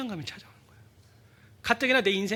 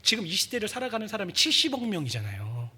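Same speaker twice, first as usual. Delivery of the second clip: retold frustrated prayer; 4 semitones higher, 4 dB louder than usual. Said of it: "이런 기도를 했습니다".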